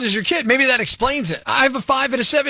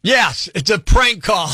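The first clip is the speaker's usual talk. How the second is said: prank reveal; slower than usual. Real, not acted. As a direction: drag out the word prank triumphantly. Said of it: "my job is to make a prank call on you".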